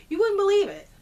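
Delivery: can't help cracking up as you say it; laughing. Real, not acted. Laughing in disbelief while telling viewers about the towing mess. Laughing at her own bad luck.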